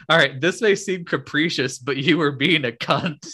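a laugh cracking the last word; trying to keep a straight face and failing; reading through laughter. Retold or imitated. Reading the rude punchline to her friend, laughing. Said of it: "It's my favorite part".

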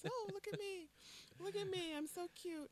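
high cutesy puppy voice; sweet pleading. Acted. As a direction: beg sweetly like a cute puppy. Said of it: "the dumb man puppy dog eyes".

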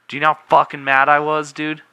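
fast, loud and high, fuming over pickles; angry rant. Real, not acted. Ranting about pickles on burger.

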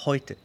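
"heute" with eu said as "oi"; German diphthong. Shown as a demonstration. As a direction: say "heute" like "HOY-te". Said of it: "El segundo diptongo es hoy". («heute» con el diptongo «oi» alemán)

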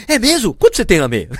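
excited officer. Retold or imitated. Officer suddenly delighted about the race.

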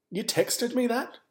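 high, slow incredulous question; retold disbelief. Son on phone questioning mum's text, incredulous.

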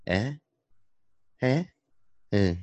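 high, short questioning grunts; a little creature's curious noises; Baby Yoda grunt. Retold or imitated. Baby Yoda answering the Mandalorian, high questioning grunts. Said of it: "Baby Yoda just responds with".

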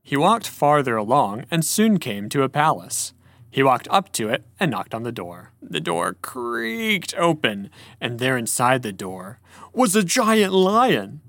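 theatrical storybook narrator, slow and deliberate; dramatic story reading. A narrator's reading. Podcast host reading a fantasy story to co-host, dramatic storytelling. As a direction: read it slowly with drawn-out key words.

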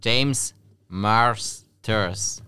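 James Masters drawn out slowly; slow, clear repeat. Real, not acted. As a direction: spell it out slowly for him.

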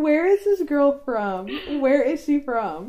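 drawn-out incredulous question; baffled. Retold or imitated. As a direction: retell your baffled disbelief, word by word. Acts out own baffled reaction.

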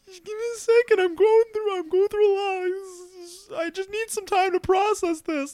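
high, strained, near tears; overwhelmed, teary. Retold or imitated. Runner at the finish line telling mom to wait, teary and high. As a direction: beg for a moment while choking up. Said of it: "and I'm over here like".

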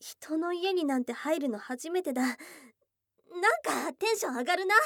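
excited. Acted. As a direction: bubble over entering his house for the first time. (初めて彼の家に入って興奮気味に)

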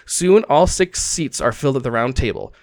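measured scene-setting with emphatic phrase openings; storyteller painting a scene for the players; game master's narration. Acted. Game master opens the campaign in a tavern, storyteller narration.

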